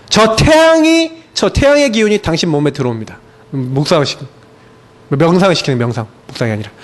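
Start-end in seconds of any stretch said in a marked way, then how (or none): 0.1-3.2 a hint of a soothing spiritual guide; mock guided meditation. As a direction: imitate a New Age guide leading sun prayer. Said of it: "이제 막 기도를 시키는 거예요".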